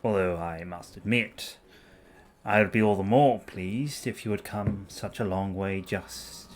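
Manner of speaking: put-on posh boy voice. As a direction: play a smooth aristocratic charmer. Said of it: "posh boy voice for Ludwig".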